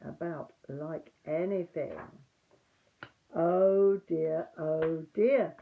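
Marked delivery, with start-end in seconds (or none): 3.3-5.5 fretful oh dear, a bit louder; small nervous piglet fretting; a timid little worry; worried Piglet. A narrator's reading. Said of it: "said Piglet to himself".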